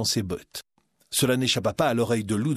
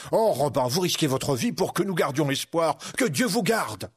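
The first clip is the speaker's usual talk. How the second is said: lightly voiced, moved friar; grateful monk; 4 semitones higher than usual. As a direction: give thanks fervently in a higher voice.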